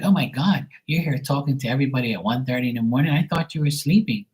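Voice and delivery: put-on imagined girlfriend. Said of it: "she'd be like".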